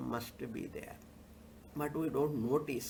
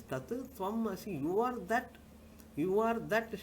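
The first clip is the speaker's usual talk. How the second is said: scripture's solemn declaration; 6 semitones higher than usual. Acted. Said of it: "Shastra is telling".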